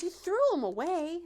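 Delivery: high, loud disbelieving question; incredulous mom. Retold or imitated. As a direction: mom can't believe it.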